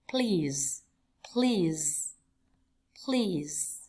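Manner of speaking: careful model pronunciation of "Please"; phát âm mẫu. Shown as a demonstration. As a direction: say "Please" with a long ee and falling tone. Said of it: "lưu ý cách phát âm". (đọc mẫu "Please", kéo dài âm ee)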